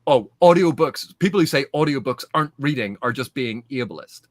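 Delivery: imitating online outrage, loud burst at the start; mock het-up. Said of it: "gets so het up".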